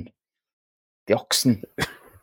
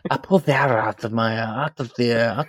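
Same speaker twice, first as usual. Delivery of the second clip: weak Spanish accent attempt; bad Spanish accent; 3 dB quieter than usual. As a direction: try a Spanish accent, badly. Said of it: "I was trying to do that".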